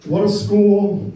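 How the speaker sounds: a lightly done Trump with a loud, slow finish; Trump impression. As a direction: drag out the last word like a bad Trump. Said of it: "not a very good impersonation".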